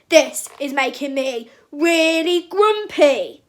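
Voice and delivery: loud, slow, booming grumble; big grumpy bear. A narrator's reading. Papa Bear fed up with the mess, big grumpy voice. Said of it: "said Papa Bear in his big, grumpy voice".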